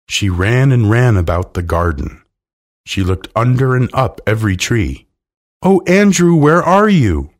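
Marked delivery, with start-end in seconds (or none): 5.6-7.3 high, loud call for a lost pet; distressed cry. A narrator's reading. Miss Lark searching the garden for Andrew, crying out. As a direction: call out frantically for the missing dog. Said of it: "she cried again and again".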